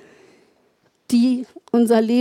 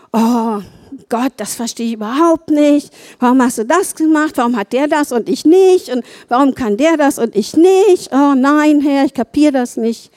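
whiny grumbling at God, a bit louder; mock complaining; 4 dB louder than usual.

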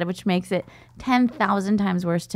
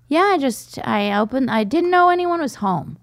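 mock dad voice; 6 semitones higher than usual. Dad quoted, high voice.

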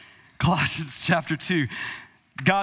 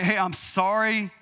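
mock insincere apology; slower than usual. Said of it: "Don't say".

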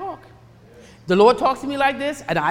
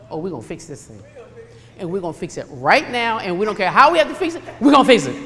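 family fixer; 3 semitones lower, 4 dB louder, faster than usual. Retold or imitated. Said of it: "Weddingtons always have a habit of".

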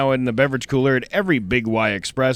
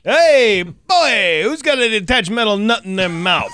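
higher, louder teasing call-out; mock scolding voice; 6 semitones higher, 5 dB louder, slower than usual. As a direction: call out a kid like a scolding adult. Mock scolding a kid with nut.

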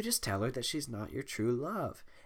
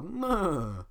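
horse laugh imitation; 6 semitones higher than usual. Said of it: "Donkey was the".

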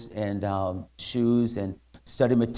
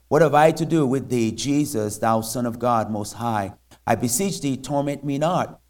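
loud cry; 3 semitones higher, 6 dB louder than usual. Acted. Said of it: "with a loud voice said".

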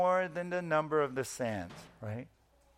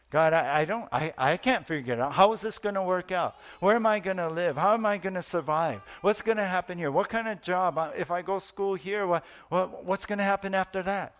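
anxious prayer; 3 semitones higher than usual. Acted. Anxious prayer voiced to God.

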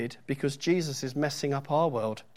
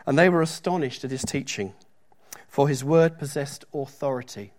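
louder, declaiming Bible reading; scripture reading; 4 dB louder than usual. Acted. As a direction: read the verse out to the congregation. Reads scripture passage aloud.

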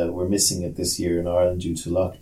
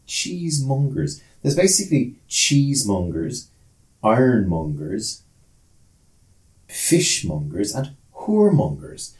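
musing out loud; slower than usual. Retold or imitated. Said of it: "I was just going, like".

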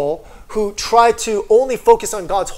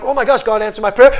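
quick, louder excited quote; amazed realization; 3 semitones higher, 6 dB louder, faster than usual. Retold or imitated. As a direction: imitate someone thrilled by answered prayer. Voices an amazed answered prayer.

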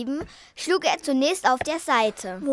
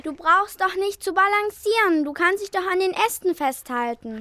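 aufmunternd rufend; 5 semitones higher than usual. Acted. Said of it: "rief Papsi".

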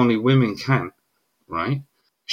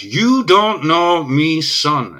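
retold shout; 4 semitones higher, 3 dB louder, much slower than usual. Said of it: "he shouts".

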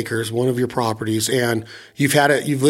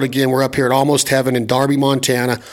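fast, wired coffee talk; rushing the words, over-caffeinated; too much caffeine. Real, not acted. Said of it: "I'm talking fast because I've had three cups of coffee".

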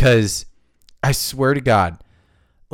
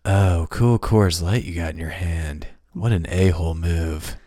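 nineties villain; 6 semitones lower than usual. Retold or imitated. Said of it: "they just talk like this".

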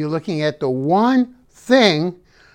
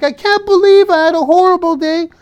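high, loud whining self-pity; mock whiny complaint; 10 semitones higher, 7 dB louder, faster than usual. To his viewers, mimicking someone stuck on one bad thing, high whine. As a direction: whine it like a sulky kid. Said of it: "You're like".

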